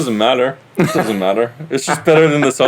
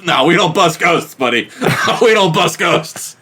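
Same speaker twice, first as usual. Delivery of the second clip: exaggerated New England accent; 4 semitones higher than usual. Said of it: "exaggerated New England guys".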